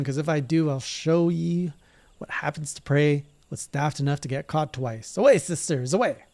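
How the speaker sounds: lightly voiced sneering captain; villainous leader. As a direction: threaten the prey, then rally away.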